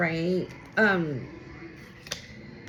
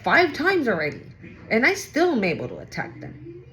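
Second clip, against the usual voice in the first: cocky defiance; faster than usual. Retold or imitated. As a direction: rattle it off like someone who thinks they got away with it. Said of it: "then goes like".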